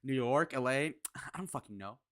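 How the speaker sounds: imitated indifferent answer, trailing off softly; mock someone who can't be bothered; mimicking disinterest. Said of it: "Just complete disinterest".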